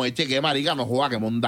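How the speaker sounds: lightly mocked Colombian coastal accent; a touch of Colombian costeño twang; playful Colombian coast accent, barely put on. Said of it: "un colombiano de la costa es como".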